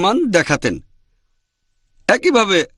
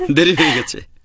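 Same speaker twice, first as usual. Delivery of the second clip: amused chuckling; 3 semitones higher than usual. Real, not acted. Teacher teases questioner about marrying a prophet, chuckling. Joking that it is too late.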